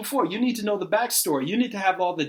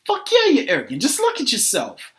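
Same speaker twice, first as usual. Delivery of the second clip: higher, louder heated retort; exasperated outburst; 3 semitones higher, 4 dB louder than usual. Acted. Arguer firing back at being questioned, exasperated. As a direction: hit back in an acted quarrel. Heated argument over arrogance.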